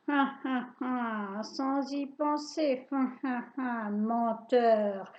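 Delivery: mild mock cackle, slow on menteur; soft sneer laugh. Witch sniggering at the boy's excuse, mild cackle. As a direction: snicker at him. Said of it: "Elle ricane doucement".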